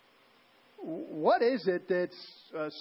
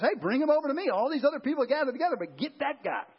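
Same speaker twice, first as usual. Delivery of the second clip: Jesus calling out, acted higher and quick; mock call across a crowd, higher-pitched; urgent summons; 7 semitones higher, faster than usual. Preacher voicing Jesus summoning the blind man, urgent call.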